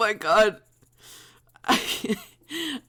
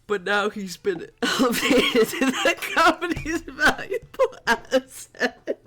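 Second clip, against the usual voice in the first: higher, laughing as the line goes on; cracking up; 8 semitones higher than usual. Real, not acted. Streamer reading dialogue about Sinclair, breaking into laughter. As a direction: read it aloud while giggling.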